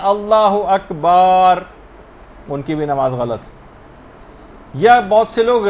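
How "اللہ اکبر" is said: اللہ اکبر with its vowels pulled long; stretched takbir. Shown as a demonstration. Teacher imitating people who stretch اللہ اکبر, drawn out. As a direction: drawl out اللہ اکبر the mistaken way. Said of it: "کھینچ کے پڑھتے ہیں".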